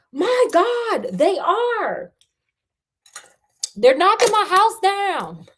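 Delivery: high, loud acted panic; horrified outcry. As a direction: cry out in dismay. Arthur sees his house being demolished.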